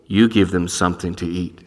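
low, deep voice from above; a heavenly voice speaking down; divine voice. Pretend. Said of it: "I hear that voice".

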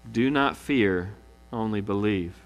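slow and gentle; reassuring. Acted. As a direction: comfort the grieving father. Jesus reassuring Jairus.

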